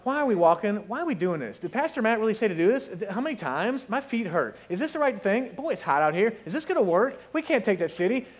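lightly voiced grumbling marchers; grumbling complainers. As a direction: play the tired crowd complaining. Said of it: "somebody's gonna start grumbling".

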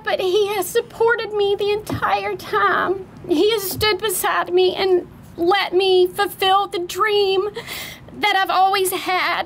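fighting back tears while thanking her husband; teary. Real, not acted. Owner thanking her husband at the opening, voice teary. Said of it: "I'm gonna get teary-eyed".

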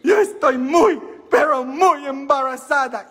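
the American nun in her broken Spanish, high and laughing; nun's American accent. Retold or imitated. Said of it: "la monja, y dice".

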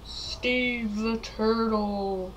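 very slow, lightly put-on villain voice; slightly ominous, stretched-out announcement; Steve the Turtle. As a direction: draw out a mock-ominous self-introduction.

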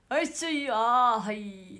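loud sneeze, then a slow, loud aah; own sneeze demo. Shown as a demonstration. Idol demonstrates her own sneeze to fans, loud and drawn out. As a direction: sneeze big, drag out the sigh after. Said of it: "私のくしゃみは".

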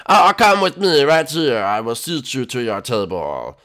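slow mock-French host; attempted French accent. Host seating the guest, slow put-on French accent. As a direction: usher grandly in a fake French accent. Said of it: "try French".

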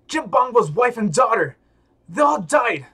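furious yelling accusation; angry shout. Acted. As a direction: roar it at him. Voicing an enraged game character.

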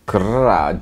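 short rolled mock growl; playful growl. Vlogger playing the angry pumpkin bath bomb, mock growl. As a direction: roll a little pretend growl.

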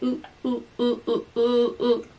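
playful sung oohs; silly ooh sounds. Retold or imitated. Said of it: "something you could just be like".

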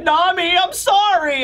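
high, drawn-out mock pleading; pleading wail. Luffy begs Nami from the cage, high pleading wail. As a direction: wail an apology like someone in trouble.

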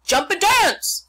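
high, loud, drawn-out rooster voice; rooster calling out. A narrator's reading. The rooster chiming in on the chase, high loud slow crow. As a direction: crow the words out. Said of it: "said the rooster".

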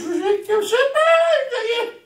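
very high, slow squeal through a laugh; hammed-up high laughing yell; laughing shout. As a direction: shriek it out while cracking up. Mock reply in silly voice.

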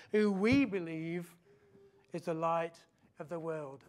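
loud, ceremonial vow question; formal vow reading. Acted. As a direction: put the vow solemnly, slowing towards the close. Reads congregation's dedication vow.

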